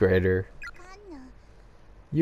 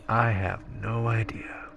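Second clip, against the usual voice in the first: whisper; 2 semitones lower, 6 dB quieter than usual. Real, not acted. Aside while reading game scene.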